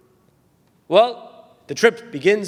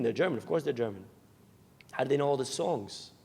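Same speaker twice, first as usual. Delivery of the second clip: baffled mother; 5 semitones lower, 10 dB quieter than usual. Retold or imitated. Baffled mother answers laughing son.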